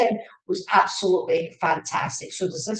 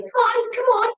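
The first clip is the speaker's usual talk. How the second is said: urging come on; 4 dB louder than usual. Retold or imitated. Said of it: "they're going".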